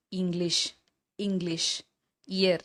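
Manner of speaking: "இங்கிலீஷ்", "இயர்" starting on an "i" vowel; ஈ sound demo. Shown as a demonstration. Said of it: "இது எல்லாமே ஈ அப்படின்ற உச்சரிப்பு". ("இங்கிலீஷ்", "இயர்" ஈ ஒலியில் தொடங்கி உச்சரி)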